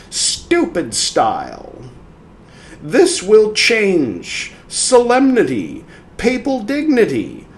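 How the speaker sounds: slow, scornful, rising on solemnity; quoted spirit voice. Acted. Spirit lecturing Carl on dignity, slow and scornful. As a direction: sneer at the canine style, then proclaim.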